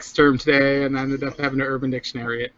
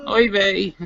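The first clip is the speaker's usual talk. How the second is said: put-on New Jersey Jewish accent; 4 semitones higher than usual. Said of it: "So you're a New Jersey Jew now".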